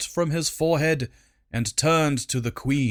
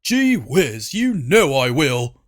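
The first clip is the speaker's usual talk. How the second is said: falsely compliant; 4 dB louder than usual. Acted. Servant placating queen.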